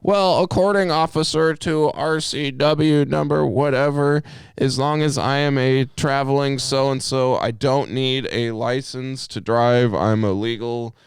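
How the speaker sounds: high, officious mock recital; high-pitched, self-important citizen spiel; sovereign citizen. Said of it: "Sovereign citizens are the ones".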